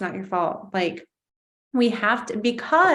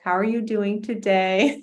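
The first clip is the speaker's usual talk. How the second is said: gentle mom voice. Retold or imitated. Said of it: "like my mom would talk to me".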